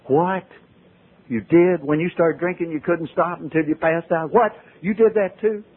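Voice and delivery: can't believe someone else did it too; astonished disbelief. Retold or imitated. Amazed at Walter's same story.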